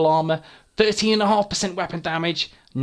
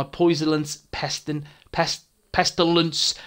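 tripping over a tongue twister, restarting the word; real tongue-twister stumble with false starts; tongue-tied stumbling. Real, not acted. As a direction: fumble the name, then land it slowly. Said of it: "a tongue twister at that".

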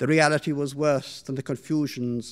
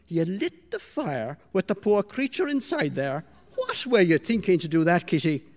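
scolding; 3 semitones higher, 4 dB louder than usual. Acted. Mistress scolds maid over kitten.

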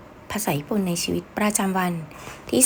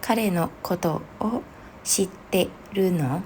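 slow careful "kare no koto shiteru no"; slowly; 3 semitones higher than usual. Shown as a demonstration. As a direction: spell it out slowly for learners. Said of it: "พูดช้าๆนะ".

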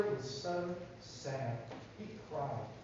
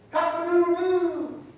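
loud, high-pitched rooster call; rooster crow; 10 semitones higher, 9 dB louder than usual. Acted. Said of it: "The rooster will crow".

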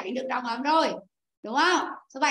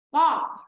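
"Bo" short and punched louder; stressed syllable alone; 5 dB louder than usual. Shown as a demonstration. Teacher marks third-syllable stress for class, "Bo" punched. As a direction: hit "Bo" on its own. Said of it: "Thế là âm tiết thứ ba".

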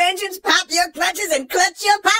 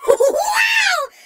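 laughing wow. Acted. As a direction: gasp and laugh at the sight. Amazed at dinosaur track.

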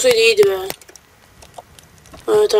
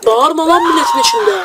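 higher, put-on scolding voice; mock scolding voice; 6 semitones higher than usual. Gamer scolding an in-game villager for yelling in public, put-on voice. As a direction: scold them like a cranky local.

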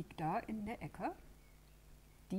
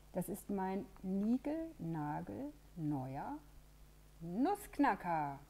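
proud; much slower than usual. Acted. Pino presents his invention.

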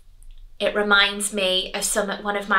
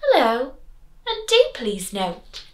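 slow, sly, proud, ends in a whisper; proud girl voice; 4 semitones higher, slower than usual. Acted. Grown-up Red Riding Hood showing off her wolf coat, slow whisper ending. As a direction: savour the last words with a secret whisper. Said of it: "She said".

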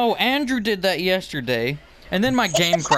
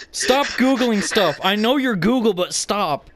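repeating to voice assistant; 4 semitones higher, slower than usual. Real, not acted.

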